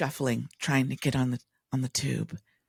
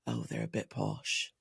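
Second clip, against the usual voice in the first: retold disdain; 7 semitones lower, 9 dB quieter than usual. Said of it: "with this face".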